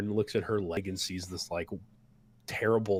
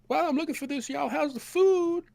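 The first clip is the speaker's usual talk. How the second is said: put-on much higher, louder folksy old cook voice; 6 dB louder than usual. The cook hands bowls to the battered party, high and folksy. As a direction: play the big cook fussing over them. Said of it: "he's like".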